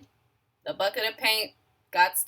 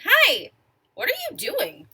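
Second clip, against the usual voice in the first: whale voice; 7 semitones higher, 5 dB louder than usual. Acted. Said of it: "And the whale saying".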